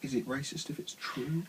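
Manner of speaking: hushed, half-joking whisper; conspiratorial whisper. Real, not acted. Whispering a cheeky question to his brother. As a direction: whisper it like a naughty secret.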